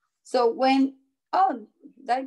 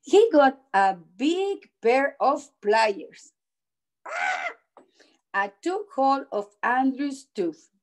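measured read-aloud with stressed key words; storybook narration. A narrator's reading. Teacher reading a picture book to children, storybook narration. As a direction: read it out carefully to young children.

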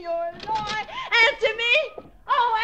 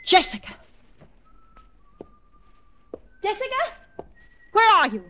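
calling out; 5 semitones higher, 6 dB louder than usual. Acted. Searching house calling for sister.

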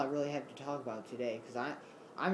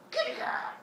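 kitty call; 4 dB louder than usual. Real, not acted. Whispering to the cat.

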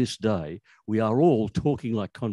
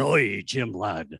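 put-on pirate accent; much slower than usual. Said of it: "put on a funny accent".

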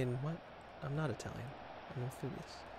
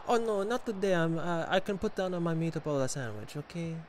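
put-on higher-pitched fragile old man; Buffon voice; 3 semitones higher than usual. Player turning down the streamer's nutmeg request, Buffon voice. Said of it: "that's my Buffon voice".

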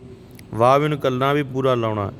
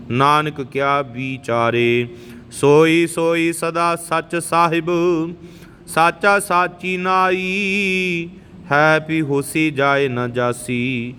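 slow, measured devotional chant; chanting scripture as a teacher; scripture recitation; slower than usual. Acted. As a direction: intone each line with reverence. Resumes recitation after teaching.

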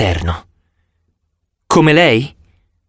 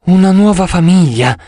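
higher, louder, lingering dreamy echo; 7 semitones higher, 4 dB louder than usual. Acted. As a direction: savour "nuova" as if dreaming. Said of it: "con voce sognante".

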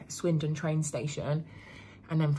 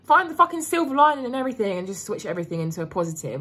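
mock chirpy, higher and louder; mocking forced positivity; 7 semitones higher, 5 dB louder than usual. Mocking silver-lining people to viewers, sarcastic chirp. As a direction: parody a silver-lining cheerleader. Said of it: "I'm not the sort of person where it's like".

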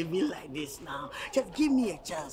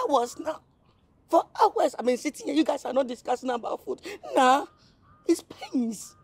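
high, pleading, fussy whine about hunger; whiny complaint; 8 semitones higher, 5 dB louder than usual. Acted. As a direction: complain high-pitched to get fed. Man complains nobody offers food.

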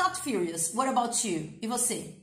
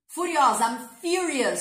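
loud, punchy model for repeating; emphatic teaching; 3 semitones higher, 6 dB louder than usual. Shown as a demonstration. Teacher modelling a new adjective for students, emphatic.

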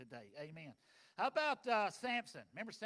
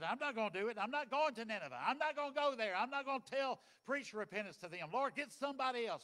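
louder, stubborn refusal; defiant Jonah; 2 semitones higher, 5 dB louder than usual. Acted. Jonah refusing to go to Nineveh, loud and defiant. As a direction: dig in your heels as Jonah.

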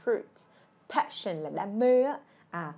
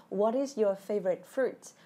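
model question; slower than usual. Shown as a demonstration. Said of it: "comment xuống giùm Thủy thử là".

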